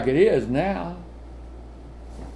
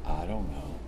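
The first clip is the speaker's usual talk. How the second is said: put-on much lower, much softer mumbled kid reply; sulky kid; 13 semitones lower, 13 dB quieter than usual. Child answering parent about mess, mumbled. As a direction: shrug it off like a guilty child. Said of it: "what you always ask kids".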